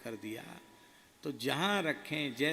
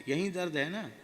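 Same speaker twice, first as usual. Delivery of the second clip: kindly guru asking; 4 semitones higher, 4 dB louder than usual. Retold or imitated. Guru touches painful spot.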